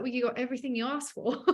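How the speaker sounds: says it through a laugh; teasing answer with laughter breaking in; laughing retort. Retold or imitated. Teasing a girlfriend about her ceremony, laughing.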